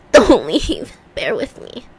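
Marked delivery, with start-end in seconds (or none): 1.1-1.8 whispered plea to wait. Real, not acted. Begging viewers to wait, whispered. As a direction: breathe it unvoiced. Stalling while searching.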